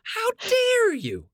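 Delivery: high, drawn-out mock indignation; mock outrage. Host accused of not reading the notes, mock outraged. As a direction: stretch it out, theatrically affronted.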